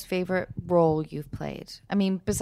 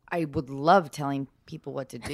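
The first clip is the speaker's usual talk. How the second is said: laughing; 7 semitones lower, 5 dB quieter than usual. Real, not acted.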